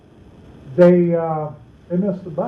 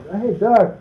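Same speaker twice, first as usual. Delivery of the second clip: sarcastic hint; 4 semitones higher than usual. Retold or imitated. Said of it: "my parents might use sarcasm or innuendo".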